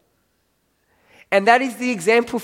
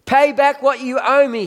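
mildly stern demand, pitched higher; 6 semitones higher, 3 dB louder than usual. A narrator's reading. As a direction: read it as a raised-pitch demand. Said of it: "he demanded".

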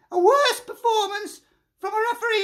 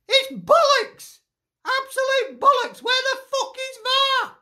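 outraged; 3 semitones higher than usual. Real, not acted. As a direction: spit out bollocks in disbelief. Furious fan rant at referee.

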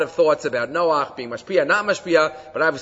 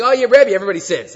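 offhand cheek; 3 semitones higher, 6 dB louder, faster than usual. Retold or imitated. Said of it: "Is that a way to talk to your Rebbe?".

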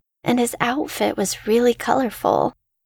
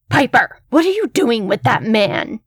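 angry calling; 2 semitones higher than usual. Acted. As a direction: call her back, furious. Angry mother calls child away.

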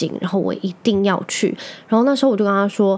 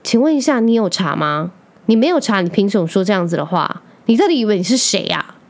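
retold street blowup. Girlfriend snapping back at boyfriend on the street, mock angry. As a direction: replay telling him off on the street, half-heated. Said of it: "我当下就发飙了".

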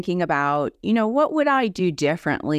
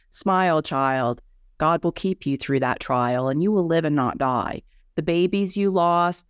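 poem recitation. Acted. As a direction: recite it like a solemn blessing. Recites her own rhyming poem.

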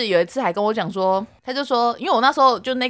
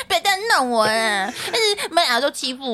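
laughing protest; 3 semitones higher than usual. Real, not acted. Playful protest while laughing.

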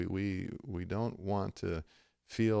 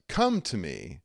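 welcoming, sincere invitation; hospitable; 2 semitones lower, slower than usual. Acted. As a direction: gently invite someone closer. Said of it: "that's hospitable".

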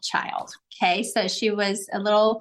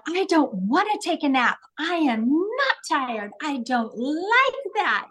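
whiny preschooler; 5 semitones higher, slower than usual. Retold or imitated. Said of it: "they're always saying".

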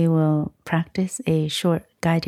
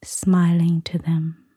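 guided meditation. Acted. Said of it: "give us a short guided meditation".

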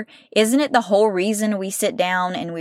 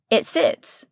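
hushed. Acted. Seed lying still in soil.

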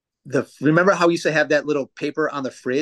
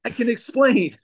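can explain; 10 semitones higher than usual. Retold or imitated. Retelling his reply to friends.

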